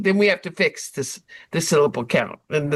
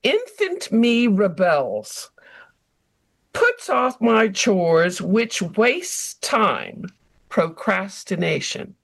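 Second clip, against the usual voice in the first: haiku recital; slower than usual. Acted. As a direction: let each line hang, savoring it slowly. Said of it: "my rebel haiku was".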